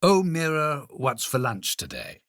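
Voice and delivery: casual question. Acted. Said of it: "if you were to say".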